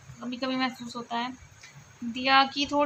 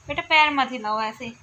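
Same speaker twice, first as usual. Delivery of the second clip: louder, firm mother's telling-off; firm scolding; 8 dB louder than usual. Real, not acted. Mother telling her daughter to stop swinging her legs, firm and louder.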